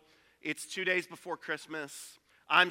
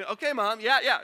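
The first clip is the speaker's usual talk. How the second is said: put-on dismissive kids; 5 semitones higher, 6 dB louder than usual. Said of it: "It was like".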